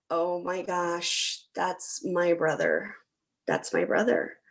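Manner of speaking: slow, hushed dawning awareness; a quiet stunned revelation; slow realization. Retold or imitated. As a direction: let it dawn on you slowly. Sudden realization about brother.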